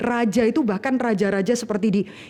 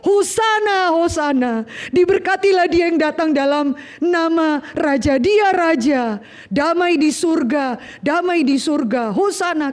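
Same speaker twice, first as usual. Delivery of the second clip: crowd cheering; 4 semitones higher than usual. Retold or imitated.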